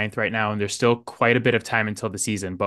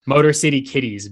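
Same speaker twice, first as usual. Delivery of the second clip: hype announcer; 2 semitones higher than usual. Acted. Hype intro of Lions podcast.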